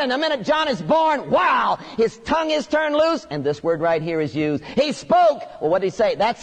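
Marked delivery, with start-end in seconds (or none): 0.0-3.2 rising, shouted wonder; excited preaching. Real, not acted. Preacher tells the congregation how Zacharias speaks again, excitedly. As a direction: exclaim the tongue set free.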